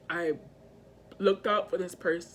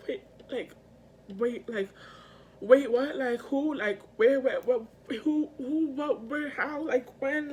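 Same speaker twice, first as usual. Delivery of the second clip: higher-pitched, tumbling confused questions; reliving bewilderment; 4 semitones higher than usual. Retold or imitated. Retelling the moment of heartbreak, bewildered and pleading. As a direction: stammer out stunned, hurt questions.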